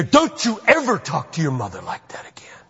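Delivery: scolding father laying down the law; stern father. Acted. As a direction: tell off a child firmly, dropping away at the end. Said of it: "they need to hear".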